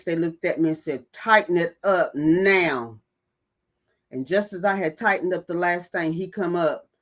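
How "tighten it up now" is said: slow, deliberate order; firm command. Retold or imitated. Someone ordering her to tighten the bike back up, slow and firm. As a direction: lay down the law, word by word. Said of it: "with a firm face".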